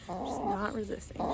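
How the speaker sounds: self-convincing murmur. Real, not acted. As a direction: talk yourself into it. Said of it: "I have to tell myself that".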